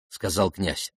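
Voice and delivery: usual speaking voice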